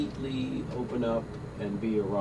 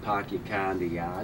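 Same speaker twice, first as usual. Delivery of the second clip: Boston accent; 4 semitones lower, 4 dB quieter than usual. Shown as a demonstration. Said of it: "You do a Boston accent?".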